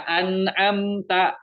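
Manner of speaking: "an'amta" slowly with a distinct, closed m; chanted "an'amta" with unveiled m; clear m. Shown as a demonstration. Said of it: "bukan kayak gitu".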